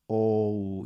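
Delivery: O as gliding 'oh-oo'; model pronunciation of O. Shown as a demonstration. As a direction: show learners O ending in a w glide. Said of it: "이렇게 발음을 하세요".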